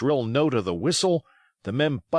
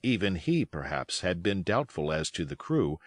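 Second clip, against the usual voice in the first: ordinary delivery, nothing marked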